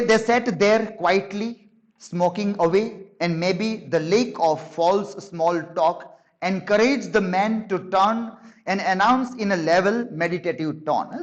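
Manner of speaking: slow, deliberate reading of a novel passage; slow book reading. Acted. Teacher reading the novel to the class, slow and deliberate. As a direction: read each phrase out slowly, savouring it.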